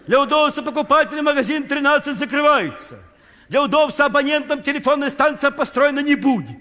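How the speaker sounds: an official voice announcing closures to citizens; mock official announcement. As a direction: read it like a public notice.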